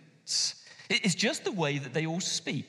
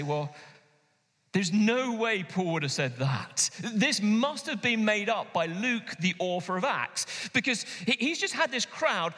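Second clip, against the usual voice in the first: higher, mocking voice of doubting scholars; sceptical commentators; 6 semitones higher than usual. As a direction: scoff at the idea as a dismissive critic. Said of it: "they say".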